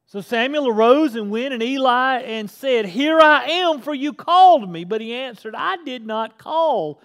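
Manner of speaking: high, loud, driving sermon delivery; full-force preaching. Acted. Preacher thunders Samuel's story to his church, full force. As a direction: preach the scripture like a revival.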